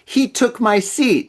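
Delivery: high, drawn-out imitation of her yell; mock yell. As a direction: mimic her complaint slowly in a high voice. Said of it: "she, she yelled".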